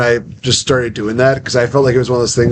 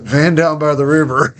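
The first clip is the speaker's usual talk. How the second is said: a hint of a comic's catchphrase, pitched up; Chris Farley; 4 semitones higher than usual. Actor recalling his ad-lib on stage, light impression. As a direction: lightly imitate the bit, slightly higher. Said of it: "incorporating, um, Chris Farley into my performance".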